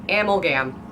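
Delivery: Amalgam as AM-ul-gam; own pronunciation. Shown as a demonstration. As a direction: stress the first syllable of Amalgam. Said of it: "more fun to say it that way".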